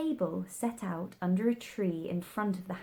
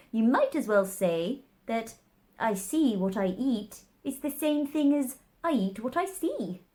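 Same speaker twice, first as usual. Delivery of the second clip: Hatter voice; 3 semitones higher, 4 dB louder than usual. A narrator's reading.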